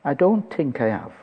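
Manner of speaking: lightly imitated Irish mother; a hint of an Irish accent. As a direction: answer in a mild Irish lilt. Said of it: "in an Irish voice".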